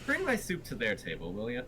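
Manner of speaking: bad Irish accent. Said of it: "a bad Irish accent".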